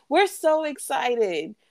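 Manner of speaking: put-on high, drawn-out kid answer, slow; little girls answering a grown-up, high and slow; excited little girls. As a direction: stretch it out like giddy little girls. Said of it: "The Little Mermaid said".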